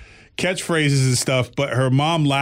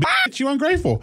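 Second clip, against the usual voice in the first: laughing through it, much higher; sassy quip with laughter, pitched way up; laughing retort; 12 semitones higher than usual. Retold or imitated. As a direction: crack up while delivering the line. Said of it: "So I was like".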